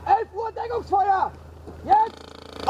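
loud call for covering fire; cover me shout. Real, not acted. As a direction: bark the order over gunfire.

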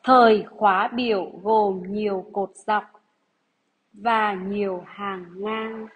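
slow, deliberate dictation read. Acted. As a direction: read each phrase out for pupils to write. Teacher rereads dictation sentence.

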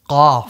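Qaf from the same back place as Ghain. Shown as a demonstration. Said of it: "Like that same place".

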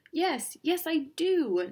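high, eager agreement; excited. A narrator's reading. Nebraska agrees with Kansas, excitedly. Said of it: "Nebraska said excitedly".

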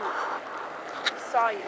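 slow, soft whisper to a schoolmate; creepy whisper. Pretend. Teasing Charlie from school in a slow creepy whisper. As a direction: breathe it out slowly, eerie.

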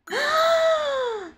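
very high, long squeal of recognition; drawn-out high-pitched gasp-scream; excited squeal. Real, not acted. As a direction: squeal with sudden delight. Recognises the visitor from the emotes.

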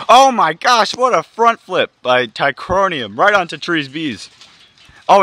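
amazed ringside call; excited play-by-play. Acted. Commentator reacts to a front flip, excited outburst settling.

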